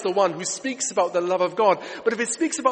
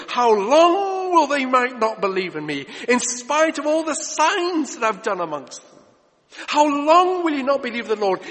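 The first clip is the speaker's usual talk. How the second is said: God's voice, loud and pitched up; a raised, stern divine rebuke; mock booming God; 4 semitones higher, 5 dB louder than usual. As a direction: thunder it out as an angry God.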